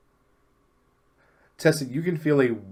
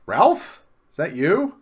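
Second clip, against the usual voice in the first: surprised call; 7 semitones higher, 6 dB louder, slower than usual. Acted. Frank senses his old friend.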